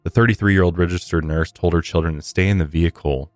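measured podcast story read; true-crime narration. Real, not acted. Host recounting a shooting to listeners, measured narration. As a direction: read the case account clearly and evenly.

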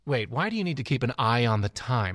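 normal talking voice

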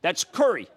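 "curry" as an accented way of saying Kerry; own accent pronunciation. Shown as a demonstration. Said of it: "the way I pronounce curry".

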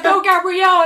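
high, very loud sideline yell of a mom; imitated screaming cheer. Mom cheering too loud for her kid at soccer, imitated scream. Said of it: "she's screaming to me".

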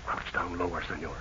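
soft low urgent warning; hushed. Acted. Captain hushing his companion while hiding. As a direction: keep it down so he cannot hear.

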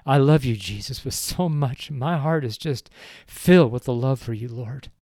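choked-up loving prayer; emotional prayer. Real, not acted. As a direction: voice catching with real feeling. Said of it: "sorry I get so emotional".

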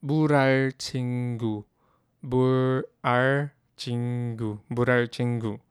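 불알 친구 said clearly, syllable by syllable; vocabulary demo. Shown as a demonstration. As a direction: model 불알 친구 for learners. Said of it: "the word is".

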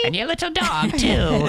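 high cackling Wicked Witch voice. Pretend. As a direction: screech it like a storybook witch. Continues witch quote.

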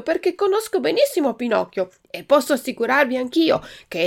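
molto più alto e forte, spaventato; grido impaurito. A narrator's reading. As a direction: grida in fretta per fermare il naso. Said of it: "cominciò a gridare". (al vecchietto, grido impaurito e acuto)

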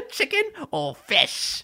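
very high, slow put-on voice; Edith. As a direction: draw it out softly in a squeaky caricature. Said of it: "You can eat Edith".

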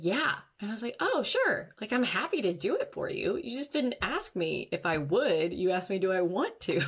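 high, eager mock realization; bright surprised reply. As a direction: replay your own cheerful oh-sure answer. Retelling cheerful reply to husband.

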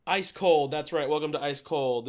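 loud announcer-style ice cold; punchy hosted catchphrase. Acted. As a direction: belt it like a segment jingle. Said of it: "What's cooler than being cool?".

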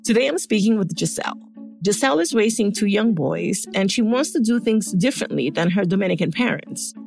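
muffled, recorded under a blanket; close, damped sound under a blanket. Real, not acted. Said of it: "I'm recording this episode under a blanket in a hotel room, so you'll notice that in my voice".

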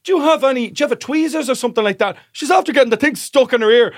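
high, loud imitation of a steward calling out; calling across. Steward asking colleague for tweezers, calling across. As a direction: project it across the cabin.

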